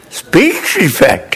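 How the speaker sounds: slow, laughing disbelief; surprised. Retold or imitated. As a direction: echo the insult, amused and stunned. Friend stunned by the tutor's verdict.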